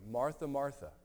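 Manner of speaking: tender, patient address of a friend; gentle. Retold or imitated. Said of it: "He gently deals with her".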